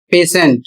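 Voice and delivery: पेशेंट with T said as श; model pronunciation. Shown as a demonstration. Teacher models patient for students, clearly. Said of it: "इसे पढ़ा जाएगा".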